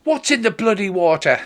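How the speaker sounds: high-pitched mock bellow; hammed-up angry questioning; irate demand. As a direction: snap the question out in acted exasperation. Irate dwarf woman keeps questioning.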